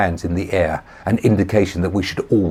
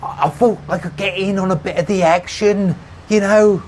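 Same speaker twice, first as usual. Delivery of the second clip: stammering; 13 semitones higher, 6 dB louder than usual. A narrator's reading. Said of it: "he stammered".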